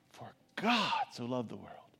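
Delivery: emphasis on the word God alone; stress on GOD. Shown as a demonstration. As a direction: linger on God, then let the verse drop. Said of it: "and we think about this God".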